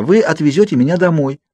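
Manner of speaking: high, imploring insistence; pleading. A narrator's reading. Girl starting her plan for the Cullens, pleading. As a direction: push the plea upward. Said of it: "взмолилась я".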